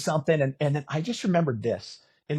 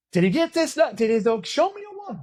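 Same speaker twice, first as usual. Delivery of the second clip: much higher, loud crowd shout; excited yelling; 11 semitones higher, 5 dB louder than usual. Retold or imitated. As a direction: call out to the stage over the noise.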